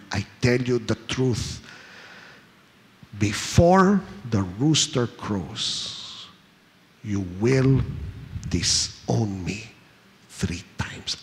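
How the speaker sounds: slow, solemn words sinking to a hush; solemn fading warning. Acted. Jesus warning Peter about the rooster, solemn and fading. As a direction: let the warning sink low and fade out.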